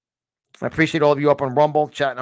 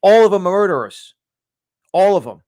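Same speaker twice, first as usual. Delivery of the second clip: shouted, higher and much louder, real fury; furious shout; 4 semitones higher, 10 dB louder than usual. Real, not acted. Host raging at politicians to his audience, furious shout. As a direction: yell the accusation at full force. Ranting against city politicians.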